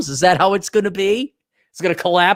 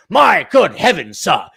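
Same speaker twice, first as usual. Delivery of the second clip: mock British bloke; 4 dB louder than usual. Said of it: "This is some podcasting bloke coming in".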